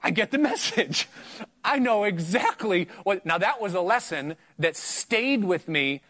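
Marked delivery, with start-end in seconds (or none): 0.0-3.2 laughing it off. Retold or imitated. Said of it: "And I said".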